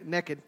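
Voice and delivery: "naked" said the Texan way, as NEKKID; Texas-style "naked", rhyming with wicked; Texan pronunciation. Shown as a demonstration. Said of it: "we're all from Texas here, so we say".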